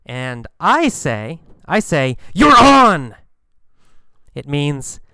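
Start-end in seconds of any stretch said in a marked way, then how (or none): 2.3-3.1 eager yes. Acted. Excited acceptance of a dare.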